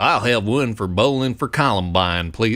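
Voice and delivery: exaggerated, over-the-top American accent. Retelling what a man said, in an exaggerated American accent. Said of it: "in this like exaggerated American accent".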